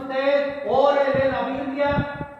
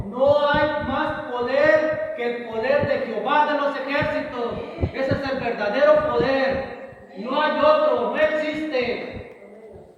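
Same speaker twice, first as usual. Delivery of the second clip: forceful declaration, key words hit louder; emphatic preaching; 3 dB louder than usual. Real, not acted. Preacher tells the congregation to understand God's power, emphatic preaching. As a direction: preach it with firm conviction.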